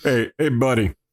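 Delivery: put-on deep tough-guy voice. Voicing hunters from the book who greet a scientist: Patrick Warburton voice. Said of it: "they sound like Patrick Warburton".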